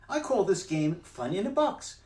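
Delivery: high, bouncy cheeky cat; cat's voice. Acted. Cat in the hat teasing the fish, high and loud. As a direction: brush off the fish, playful.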